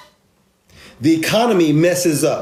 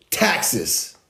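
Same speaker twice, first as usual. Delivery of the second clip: dropped low and much softer, deadpan; 4 semitones lower, 6 dB quieter than usual. Real, not acted. Punchline after every purchase, deadpan and much softer. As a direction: let the word fall flat and soft.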